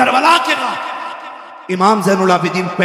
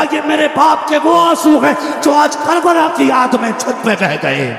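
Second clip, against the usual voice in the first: fiery preaching; 5 semitones higher than usual. Acted. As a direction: preach it with full force. Passionate majlis narration at full force.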